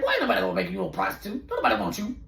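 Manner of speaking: laughing and fast; laughing dismissal. Retold or imitated. The friend laughing off his panic. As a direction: brush him off with a laugh. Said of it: "She's like".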